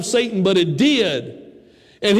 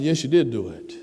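low, soft voice of God; a deep, calm reply; God firmly correcting Sarah; God answering; 7 semitones lower, 4 dB quieter than usual. Acted. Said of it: "And God said".

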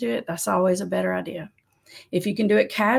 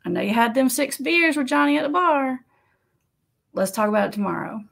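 casual statement; 3 semitones higher than usual. Shown as a demonstration. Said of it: "Just say".

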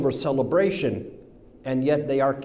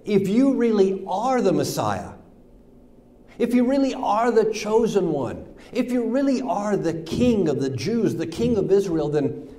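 mocking yell; 8 semitones higher than usual. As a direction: build the jeer, each 'really' pushed higher. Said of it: "They yelled at him".

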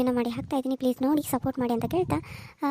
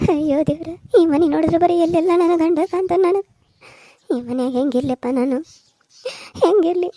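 tearful widow wailing louder over her husband; grieving widow; 3 semitones higher, 3 dB louder than usual. Acted. Widow weeping to her son, wailing louder. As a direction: cry it out like a new widow in his house.

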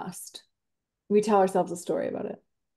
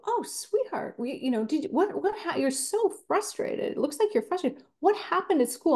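put-on higher, soft soothing voice to a child; tender parent; 5 semitones higher, 3 dB quieter than usual. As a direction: coax a frustrated kid gently. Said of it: "and you go".

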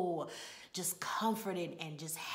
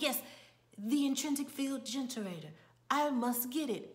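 higher, measured imitation of amateur acting; stage-actor delivery; 4 semitones higher than usual. Assistant corrected by the playwright mid-play, stagey delivery. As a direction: recite the corrected line as an actor would. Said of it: "He's like".

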